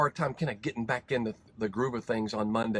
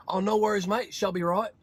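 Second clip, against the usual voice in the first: Kiwi reply; 6 semitones higher than usual. Retold or imitated. Kiwi mates answer in story.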